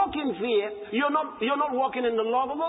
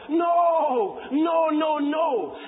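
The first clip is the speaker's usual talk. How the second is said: shouted no; 6 semitones higher, much slower than usual. Real, not acted. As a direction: cut the idea down with a shout. Preacher rejecting an idea.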